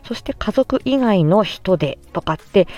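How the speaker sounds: ordinary talk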